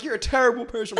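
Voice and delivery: high, loud accusation; mock yelling niece. Niece to the driver, mock yelled accusation. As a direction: imitate an outraged relative scolding. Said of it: "she starts yelling at me".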